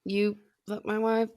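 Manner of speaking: casual, soft Raging Bull line; quiet mock movie voice. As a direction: toss off the line in the voice. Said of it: "Like, in the voice".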